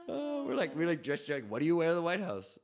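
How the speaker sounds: talking through leftover laughter; laughing. Real, not acted. To the host about what to wear, laughing. Laughing while retelling the suits.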